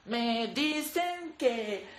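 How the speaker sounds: slow, soft, sorry-for-herself reading; mock sad roast lines. Parodying a Roast Yourself video, slow mock-sad voice. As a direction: drag each insult out like a sad confession.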